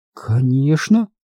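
astonished, surprised tone. A shopkeeper answering the uncle's request to visit again, surprised. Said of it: "удивленно ответила она".

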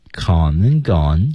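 pitch climbing upward on the word gone. Lesson on intonation in a repeated phrase: rising tone on gone. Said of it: "是都是怎么样的向上走的音, rising tone".

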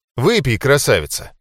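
ordinary delivery, nothing marked

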